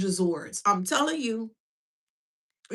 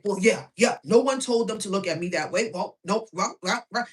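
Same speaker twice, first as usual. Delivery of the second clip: mocking the hater; 3 semitones lower than usual. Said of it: "And this is how they sound".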